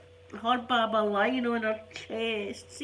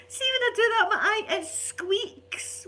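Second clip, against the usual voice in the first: high and loud, laughing through the words; can't hold back the giggles; giggling; 12 semitones higher, 4 dB louder, slower than usual. Real, not acted. Gran laughs at her own squeaking eye, high and giggly.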